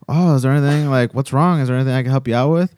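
imitating eager customer service; super nice. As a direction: offer help in a chirpy voice. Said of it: "super nice".

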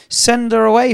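loud high pressing demand; insistent demand. Acted. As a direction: cry out to be rid of her. Disciples quoted a third time.

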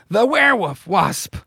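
high-pitched, hammed-up alarm; acted alarmed exclamation. Professor seeing the freed wasp, mock alarm. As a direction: exclaim it like a comic-book villain caught out.

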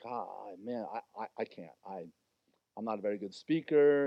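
low, soft, mumbling excuses; reluctant Moses. Acted. Moses dodging God's call, low and sheepish.

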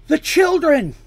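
high, loud cry of alarm; alarmed scream. A narrator's reading. Dandy screams to Mercy about the children, an alarmed high yell. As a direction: scream it out, pitched right up. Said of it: "Dandy screamed".

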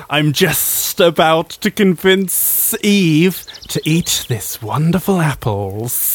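slow hissing serpent voice; snake voice. Pretend. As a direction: drag the words out like a snake. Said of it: "can I do a snake voice?".

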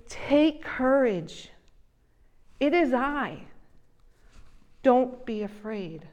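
slow, calm, steady reassurance; reassuring. Retold or imitated. Jesus to frightened disciples on the lake, calm. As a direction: settle their fear slowly.

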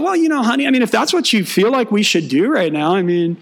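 high, overly sweet agreeable tone; fake supportive husband. Pastor imitating himself humoring his wife, sugary. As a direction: sound accommodating while secretly thrilled. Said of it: "But on the outside, I'm like".

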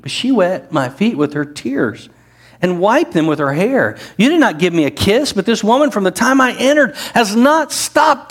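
a hint of a gentle rebuke from Jesus; Jesus rebuking Simon. Preacher voices Jesus addressing Simon.

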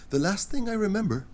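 soft, dazed, apologetic murmur; sheepish quiet apology. Acted. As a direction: whisper a sorry, just waking. Inventor waking, apologetic.

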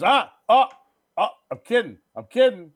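high, loud mock "just kidding" outburst; imitated manic joking. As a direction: blurt it out like a manic prankster. Acting out killer's sudden kidding taunt.

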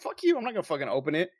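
quick, irritated mock refusal; annoyed brush-off. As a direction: snap it off fast like a friend's teasing. Joking refusal to open salt.

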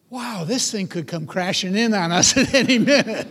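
half-laughing, nervous wonder; nervous laughing awe. Retold or imitated. Israelite walking between the walls of water, nervously laughing. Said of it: "walking through going".

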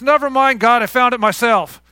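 breezy dismissal. Retold or imitated. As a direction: wave God away like you don't need him.

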